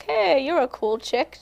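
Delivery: drawn-out, lightly imitated British accent. Singer retelling a publicist's invitation, light British accent. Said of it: "but she has a British accent, so it was almost like".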